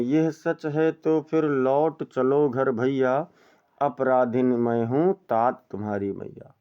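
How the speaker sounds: slow, measured verse reading; poem recitation. Shown as a demonstration. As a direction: recite it like classical poetry. (धीमा काव्य पाठ)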